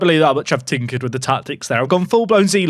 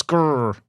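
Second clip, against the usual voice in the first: frustrated growl; a short annoyed grr; deep throaty growls. Real, not acted. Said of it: "Don't know why I'm grrring at the game".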